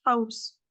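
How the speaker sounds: "house" with long throat friction on the h; exaggerated rasped house. Shown as a demonstration. Teacher mocking an unlikely pronunciation, "house" heavily rasped. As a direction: overdo an Arabic throaty h on "house".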